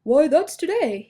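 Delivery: happy realization, bursting out; excited. A narrator's reading. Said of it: "Dandelion was very excited".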